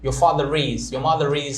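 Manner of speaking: father and mother each linked to is by an R; linking R. Shown as a demonstration. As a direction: sound the final R of father and mother before is. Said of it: "if the next word starts".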